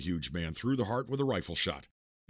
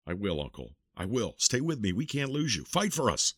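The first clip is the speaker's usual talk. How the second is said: rising, tearful pleading; desperate pleading. Acted. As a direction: beg him to hold on. Nephew pleads with dying uncle.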